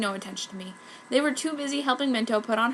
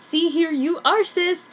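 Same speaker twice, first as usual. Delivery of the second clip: higher, louder gushing author aside; fanfic author voice; 7 semitones higher, 5 dB louder, slower than usual. Retold or imitated. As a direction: pop in as the excited kid author. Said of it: "Author's note".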